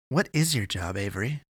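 firmer, pressing question; demanding. Acted. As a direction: demand the answer from Avery. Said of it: "he demanded".

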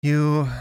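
"You" loud, high and held on its own; slow emphasis. A narrator's reading. Avery explaining to an idiot, "You" said with slow emphasis. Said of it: "she said slowly, with the emphasis".

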